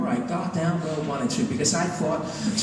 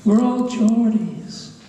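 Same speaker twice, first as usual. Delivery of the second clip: higher, slow, lightly put-on Geordie chorus; mock Geordie pride; 5 semitones higher, much slower than usual. Newcastle locals answering what unites them, mock proud and drawn out. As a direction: draw it out like a contented local, half sung.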